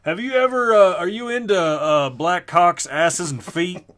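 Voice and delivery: sleazy pickup line. Retold or imitated. Mock pickup line to a girl.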